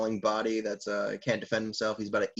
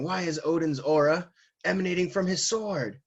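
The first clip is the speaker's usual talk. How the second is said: raised-pitch mock disbelief; alarmed question; 5 semitones higher than usual. Recapper voicing Kaido seeing the aura, mock alarmed. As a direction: demand it in hammed-up astonishment.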